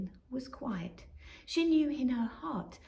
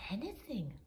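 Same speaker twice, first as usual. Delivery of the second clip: dreamy whispered mutter; half to herself, longing; 7 dB quieter than usual. Acted. Robin mutters dreaming of crumbs. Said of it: "muttered Robin".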